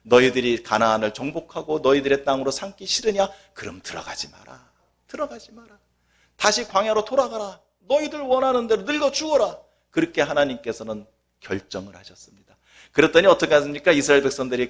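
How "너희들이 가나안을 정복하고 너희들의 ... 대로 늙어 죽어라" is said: a hint of a stern God; lightly voiced rebuke, dismissive; imitating God turning them away; God's stern reply.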